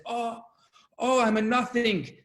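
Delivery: high, loud copy of the wailing; imitated earnest wail. Young student copying his elders, imitated wail. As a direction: cry it out like the older students. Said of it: "very inspired by these two older students who are screaming".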